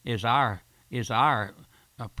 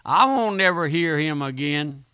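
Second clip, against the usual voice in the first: raised, louder mock defiance of a scoffer; boastful scoffer; 4 semitones higher, 5 dB louder than usual. Preacher mimics a boaster refusing to hear him, loud mock defiance. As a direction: mimic a proud man swearing he won't go back. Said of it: "I've heard people make a boast".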